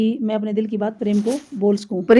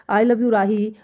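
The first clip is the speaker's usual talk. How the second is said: a brisker, fuller retake; second try; much slower than usual. Pretend. Rehearsing a confession again, a brisker second attempt. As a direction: try it again with more push. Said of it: "अब फिर से try करता हूँ".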